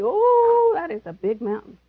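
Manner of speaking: high startled oh; mock alarm at the size of the problem; mock dismay.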